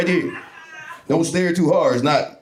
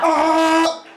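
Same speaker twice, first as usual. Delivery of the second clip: mock echolocation yell; 10 semitones higher than usual. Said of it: "just walk around screaming".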